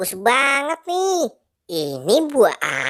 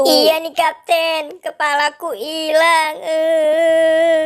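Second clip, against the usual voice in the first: higher, tearful cartoon wail; mock-sad whine; 4 semitones higher, slower than usual. Boy telling the Captain his head is lost, sad whine. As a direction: whine as if about to cry. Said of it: "Kok sedih sekali sih".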